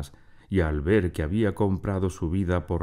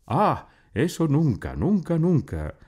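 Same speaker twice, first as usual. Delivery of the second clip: shouting refusal; 10 semitones higher than usual. A narrator's reading. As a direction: yell it out, refusing. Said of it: "gritó". (grito agudo y fuerte)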